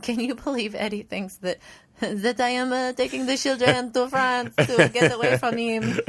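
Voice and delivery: high, laughing mock-indignant Delilah; mocking Delilah's high-pitched outrage while laughing. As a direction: squeak out her outrage, giggling. Delilah quoted mockingly in recap.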